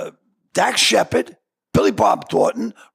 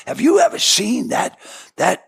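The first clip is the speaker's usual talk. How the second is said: lightly imitated awestruck old actor; Robert Duvall; 3 semitones higher, slower than usual. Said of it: "He goes".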